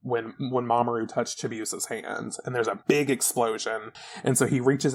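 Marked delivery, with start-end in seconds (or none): none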